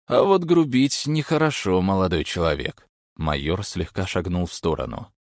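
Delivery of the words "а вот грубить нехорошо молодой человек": higher, louder stern rebuke; stern warning. A narrator's reading. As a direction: scold the young man. Major lecturing the thugs.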